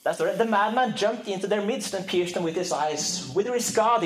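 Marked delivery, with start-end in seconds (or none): 0.4-3.3 solemn literary reading in English; slow, weighty reading of a philosophical text; dramatic reading. Acted. Reads Nietzsche excerpt aloud. 3.3-4.0 a touch of a raised cry; understated anguished cry; mild cry. Acted. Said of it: "he cried".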